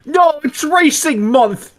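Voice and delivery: high, slow put-on voice; squeaky comic character.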